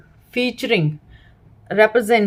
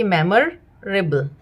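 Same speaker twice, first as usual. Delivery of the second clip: slow whole word; 3 semitones lower, much slower than usual. Shown as a demonstration. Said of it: "दो तीन बार बोल लेंगे तो उन्हें समझ में आ जाएगा".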